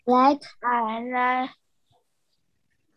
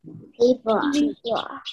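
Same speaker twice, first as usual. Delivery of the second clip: group repeating after leader. Real, not acted. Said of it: "everyone repeat after me".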